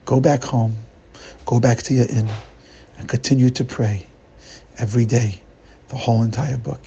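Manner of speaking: a hint of the wise master, grave; solemn gentle sage. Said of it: "looks deep into his eyes, deep into his soul".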